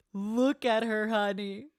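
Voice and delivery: high, drawn-out fangirl squeal; swooning, stretched-out coo; adoring gush. Real, not acted. Gushing over a character on screen.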